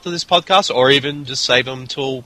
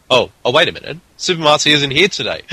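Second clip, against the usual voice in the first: higher-pitched pretend realization; mock surprise; 6 semitones higher, 3 dB louder, faster than usual. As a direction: act suddenly shocked by her absence. Host feigns discovering co-host is absent.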